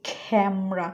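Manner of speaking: "ক্যামেরা" as KHAM-ra, puff on the k; aspirated k. Shown as a demonstration. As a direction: open "ক্যামেরা" with a breathy k, two syllables. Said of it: "আমি কিভাবে উচ্চারণ করি".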